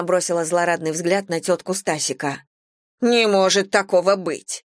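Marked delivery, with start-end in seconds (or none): 3.0-4.6 indignant. Acted. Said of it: "возмутилась Таисия".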